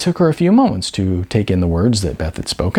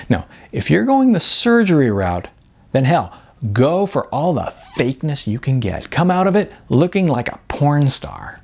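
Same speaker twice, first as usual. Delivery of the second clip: higher, brisk and candid agent's voice; blunt talent agent; 3 semitones higher than usual. Acted. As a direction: sell the hard truth with sugary frankness. Beth suggests surgery.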